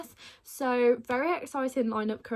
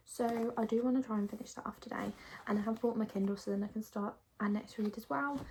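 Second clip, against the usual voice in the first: whispering. Real, not acted. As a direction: keep it hushed, whispering. Whispers while away for weekend.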